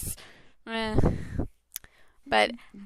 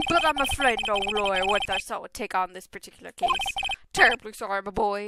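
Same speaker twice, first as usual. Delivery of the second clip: put-on old posh lawyer. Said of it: "voice I imagine for this guy".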